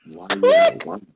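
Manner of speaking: very high, loud retold squeal; incredulous squeal. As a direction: stretch it into a comic high-pitched protest. Retelling his reply to recruiter.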